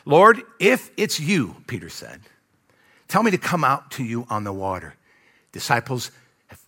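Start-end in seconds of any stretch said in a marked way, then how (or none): 0.0-1.6 slow, deliberate scripture reading; measured Bible reading. A narrator's reading. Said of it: "let me read it". 3.1-4.9 even, measured reading of a verse; restrained Bible reading; scripture reading. A narrator's reading. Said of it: "let me read it".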